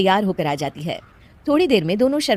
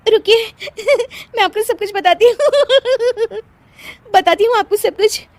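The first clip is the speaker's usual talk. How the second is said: high, loud words between laughs; giggling promise; 13 semitones higher, 4 dB louder than usual. Acted. Wife promising husband an explanation, giggling helplessly. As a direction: beg for a moment through giggles.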